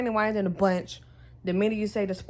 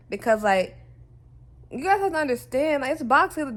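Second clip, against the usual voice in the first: raised, fired-up ranting voice; heated rant; 2 semitones higher, 5 dB louder than usual. Real, not acted. Vlogger venting loudly to viewers about boxing. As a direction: push it out loud and worked up.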